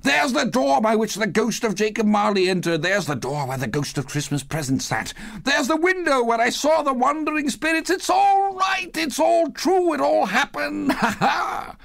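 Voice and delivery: very high glee building into laughter; elated cries. A narrator's reading. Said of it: "it was a splendid laugh".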